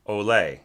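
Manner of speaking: "ole" with the accent on its final syllable; stress on second syllable. Shown as a demonstration. Teacher shows the accent they are accustomed to hearing, second-syllable stress on "ole". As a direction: lean on the "le" in "ole". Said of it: "hearing the accent on the second syllable".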